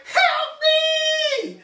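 high shrieking cry for help; panicked scream for help. Retold or imitated. Aunt chased by a dog, shrieking in panic. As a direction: scream it like a dog is on your heels.

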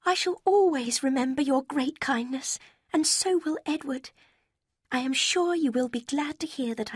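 high, sweet letter-writer voice; sugary young woman. A narrator's reading. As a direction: read it like a falsely sweet rival. Lucy's letter read in her voice.

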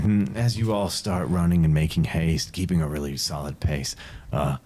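steady storyteller narration; story narration. Acted. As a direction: paint the journey for the players. GM sets the scene.

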